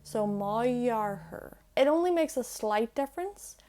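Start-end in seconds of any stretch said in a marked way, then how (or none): 0.0-1.6 slow "jarthair" with an open y start; mouth open. Shown as a demonstration. Teacher repeating the smooth lenited form slowly. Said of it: "you kinda keep your mouth open".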